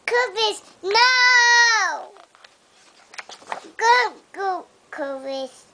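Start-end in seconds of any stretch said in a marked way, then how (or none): 0.8-2.1 crying no. Real, not acted. Child crying out at dog.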